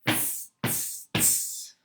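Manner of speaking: tsk back like cheeky monkeys. Acted. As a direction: monkeys mocking the peddler, whispered clicks.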